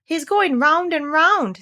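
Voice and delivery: much impressed. A narrator's reading. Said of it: "much impressed".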